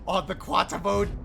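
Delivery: excited nerd. Real, not acted. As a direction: gasp with nerdy glee. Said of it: "I sound like a super nerd".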